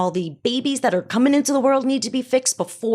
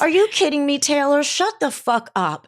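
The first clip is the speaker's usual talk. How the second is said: retold exasperated snap; 5 semitones higher than usual. Mom retelling how she scolded her daughter, mock exasperated. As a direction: half-playfully replay telling her daughter off. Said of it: "is what I basically said".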